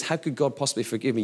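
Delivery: quick, quiet echo of the doubter. Retold or imitated. Pastor quoting a doubting churchgoer back to them, quick and hushed. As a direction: rattle off their doubt quickly. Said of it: "What you're saying is".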